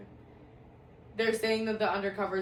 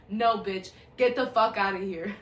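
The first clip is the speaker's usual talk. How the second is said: mock cop yell; 5 dB louder than usual. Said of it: "She goes".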